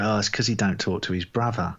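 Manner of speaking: put-on critic with a bad Wisconsin accent; badly faked Wisconsin accent; attempted Wisconsin accent. Podcaster mimicking Rodgers's critics, in an attempted Wisconsin accent. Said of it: "doing my best Wisconsin accent".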